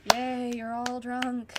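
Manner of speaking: slow, dry mock cheer; drawn-out sarcastic yay. Teen mocking drunk adults, slow sarcastic cheer.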